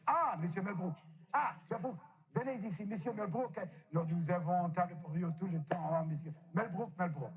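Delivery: a hint of a fawning French maître d'; mock French waiter. French waiter welcoming him in a light French accent.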